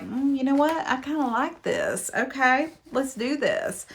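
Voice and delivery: retelling the heroine's sudden change of heart, mock coy; mock swooning heroine. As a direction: ham up the heroine giving in. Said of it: "And then she's like".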